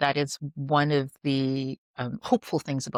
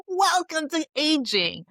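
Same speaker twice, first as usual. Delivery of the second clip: much higher, slow, teasing sing-song; wry welcome; 13 semitones higher, 3 dB louder, slower than usual. Retold or imitated. Telling friends at dinner about menopause, slow teasing welcome. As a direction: welcome them to aging with a knowing smile. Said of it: "I'm like".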